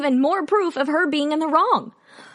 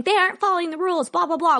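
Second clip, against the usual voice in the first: higher, fast tattletale imitation; mock crying complaint; 4 semitones higher, much faster than usual. Imitating people who cry to the cops, mock tattling. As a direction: rattle off a mocking complaint. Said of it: "they would cry to the cops".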